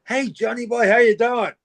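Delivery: put-on high, bright-pitched hello to an old mate; high, friendly call to Johnny Boy; cheery greeting. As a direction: greet him like a long-lost friend. Friend defusing tension with greeting.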